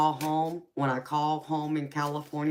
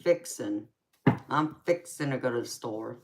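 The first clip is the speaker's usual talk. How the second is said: light Southern "I'm fixin' to go to the store"; Southern accent. Shown as a demonstration. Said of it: "what do we say here?".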